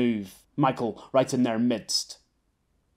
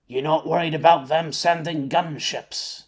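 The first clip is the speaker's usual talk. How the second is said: gravelly pirate; 2 semitones higher than usual. Acted. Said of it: "sounding like a proper pirate with that gravelly voice".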